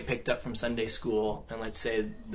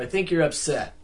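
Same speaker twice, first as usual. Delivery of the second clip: condescending; 4 semitones higher, 5 dB louder than usual. Shown as a demonstration. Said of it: "in a condescending kind of".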